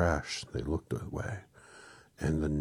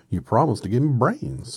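Scarecrow voice; 9 semitones higher, 11 dB louder than usual. Acted. Scarecrow speaks.

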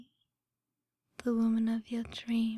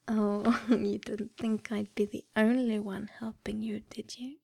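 teasing giggle; faster than usual. Acted. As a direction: whisper through a playful laugh. Teasing reveal of friends.

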